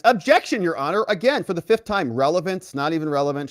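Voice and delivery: high, insistent courtroom objection; exasperated objection. Retold or imitated. Defense objecting for the fifth time, exasperated. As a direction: object as if fed up with repeating it.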